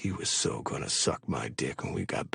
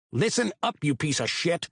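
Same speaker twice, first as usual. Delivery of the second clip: through clenched teeth; 7 semitones higher than usual. A narrator's reading. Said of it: "Witter said through clenched teeth".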